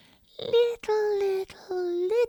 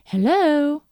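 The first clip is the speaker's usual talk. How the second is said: Little Red Riding Hood; 7 semitones higher, 11 dB louder than usual. Acted. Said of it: "said Little Red Riding Hood".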